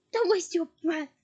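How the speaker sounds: loud yell. Acted. Harry yelling at Bellatrix. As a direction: snap it back at her. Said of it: "yelled Harry".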